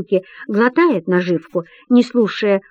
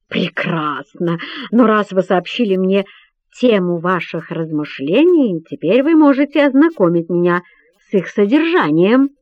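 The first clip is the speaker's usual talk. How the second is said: pompous. Acted. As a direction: puff up with pride as you speak. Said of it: "напыщенным тоном произносит он".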